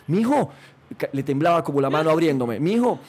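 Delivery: mother bursting with the news of the call; excited mother. Retold or imitated. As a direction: blurt it out like an overjoyed mother. Mother excitedly announces RCN call.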